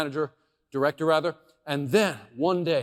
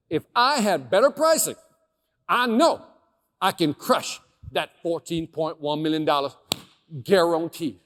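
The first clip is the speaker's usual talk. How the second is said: bold promise; 5 dB louder than usual. Retold or imitated. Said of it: "And I said that, just like that".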